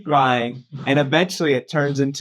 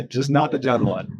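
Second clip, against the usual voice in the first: laughing repeat. Real, not acted.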